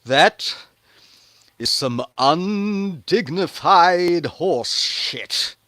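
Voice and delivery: loud, slow disdainful wife; scornful Michal. Acted. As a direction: drag out each word in contempt. Michal scolding David.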